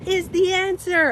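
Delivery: high, slow, dreamy preacher of love; imitating the little guy. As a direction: play the street guru in his underwear. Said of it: "You know that little guy?".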